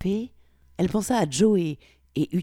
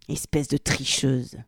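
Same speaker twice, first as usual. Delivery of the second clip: spat out; slower than usual. Acted. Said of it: "cracha-t-il".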